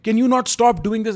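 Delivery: high-pitched imitated plea, no real sobs; retold tearful plea. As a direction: plead as if retelling a tearful fight. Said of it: "where I'm crying. I'm like".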